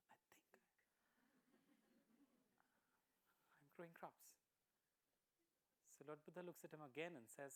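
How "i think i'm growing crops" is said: much softer and very slow, unsure; trailing doubt, barely committing; confused farmer. Acted. Farmer unsure before Lord Buddha, slow and much softer. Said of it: "the farmer's a little confused".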